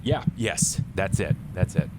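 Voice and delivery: loud, breathy panicked rush; panicky outburst. Acted. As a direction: fall apart in a loud panic. Character panicking at the door.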